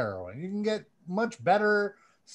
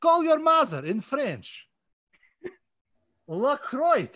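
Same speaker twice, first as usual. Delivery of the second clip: put-on Russian accent; 4 semitones higher than usual. Reading fan names aloud to listeners in a light mock Russian accent. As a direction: lightly play a Russian announcer. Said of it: "I'm gonna do it with a Russian accent for you".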